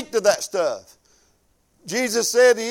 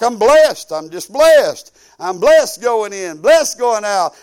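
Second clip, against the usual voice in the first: proud declaration; 6 dB louder, slower than usual. Pretend. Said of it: "You'll be like".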